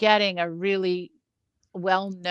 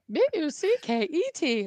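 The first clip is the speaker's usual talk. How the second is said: spelled out through a laugh; 7 semitones higher, 4 dB quieter than usual. Retold or imitated. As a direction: spell bucket while laughing. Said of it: "It's like bucket".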